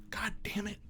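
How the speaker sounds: under-breath whisper; whispered curse. Real, not acted. Under breath after outburst.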